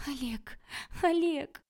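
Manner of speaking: high, wailing call of a name; crying. A narrator's reading. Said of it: "плакала Васька".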